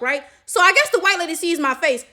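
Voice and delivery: usual speaking voice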